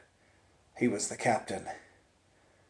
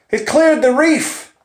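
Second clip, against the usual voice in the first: high, loud alarmed shout; panicked yell; 13 semitones higher, 7 dB louder than usual. Retold or imitated. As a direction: scream the warning in fear. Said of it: "Rene yelled".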